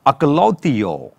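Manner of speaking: అకలౌతియో said slowly as a Greek term; Greek pronunciation. Shown as a demonstration. Teacher introduces the second word for disciple, అకలౌతియో in slow Greek pronunciation. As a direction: sound out అకలౌతియో slowly, vowel by vowel. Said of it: "Greek pronunciation".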